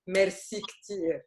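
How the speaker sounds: "merci ktir" said slowly, French merci then ktir; slow careful "merci ktir" for learners; Lebanese merci ktir. Shown as a demonstration. Teacher to class, slow demo of "merci ktir". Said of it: "Like we say in Lebanese".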